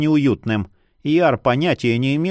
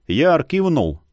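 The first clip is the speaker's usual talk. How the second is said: usual speaking voice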